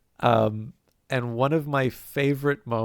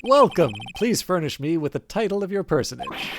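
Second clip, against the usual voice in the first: pompous CEO voice; 3 semitones higher than usual. Acted. Voicing Red White character.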